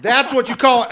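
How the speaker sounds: put-on high, loud little girl voice; high child voice. Daughter voiced in story.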